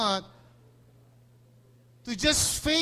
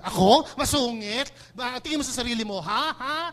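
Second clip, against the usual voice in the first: loud offended comeback; indignant retort; 2 semitones higher, 5 dB louder than usual. Retold or imitated. Accused friend snapping back, loud and offended. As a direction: snap back, insulted. Indignant reply to being called grumpy.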